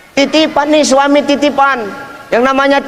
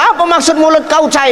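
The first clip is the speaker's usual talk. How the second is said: mock angry demand, pitched higher; raging wife; 4 semitones higher than usual. Wife snaps at her husband over his words, mock rage. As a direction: play the furious wife, half-joking. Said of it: "Ngamuk dia".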